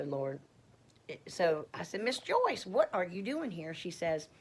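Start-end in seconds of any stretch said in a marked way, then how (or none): 2.0-3.8 high-pitched delighted surprise at first, easing down; surprised greeting. Retold or imitated. Running into Miss Joyce at church, surprised. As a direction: exclaim the name high, in retold surprise. Acting out surprised chance meeting.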